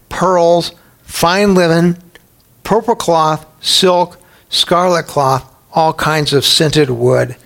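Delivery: slow read of the luxury list; scripture list reading. Acted. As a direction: savour each luxury item as you read it. Reads the list of goods.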